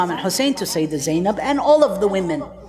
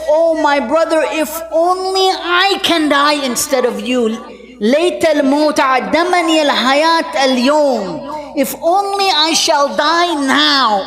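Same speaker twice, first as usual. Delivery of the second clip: anguished plea; 4 semitones higher than usual. Acted. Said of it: "and she says".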